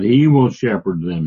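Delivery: HE hit hard, the rest falling away; emphatic HE. Shown as a demonstration. Teacher showing what the emphatic pronoun does, stress on HE. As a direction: pound the table on the word HE. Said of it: "they're pounding the table".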